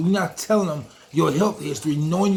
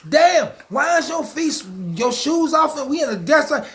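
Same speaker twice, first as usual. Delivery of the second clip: friend's incredulous voice; 8 semitones higher than usual. Retold or imitated. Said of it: "she like".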